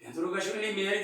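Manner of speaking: mai încet și repede, nesigur; „mele” spus încet, în gând, cu îndoială; gând ezitant. Retold or imitated. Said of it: "s-a gândit". (rostire încetă, nesigură, în gând)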